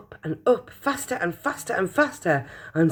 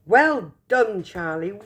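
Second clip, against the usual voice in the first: hearty praise; 3 semitones higher, slower than usual. Acted. Praising Charlie.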